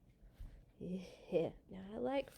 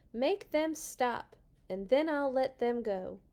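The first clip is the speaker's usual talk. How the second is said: pleading Pharaoh; 3 semitones higher, 4 dB louder than usual. Acted. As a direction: beg to make it stop. Pharaoh pleading to stop plagues.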